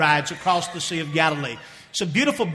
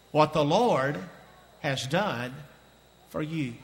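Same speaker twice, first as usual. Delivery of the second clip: fading refrain; 3 semitones lower, 5 dB quieter, slower than usual. Acted. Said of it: "repeating the refrain quietly".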